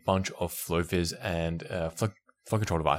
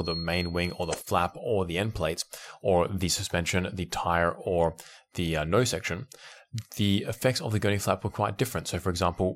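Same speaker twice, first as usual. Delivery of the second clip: ordinary talk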